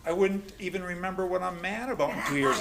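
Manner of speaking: said through laughter; laughing. Retold or imitated. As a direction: laugh while you protest. Laughing retort to the sponsor.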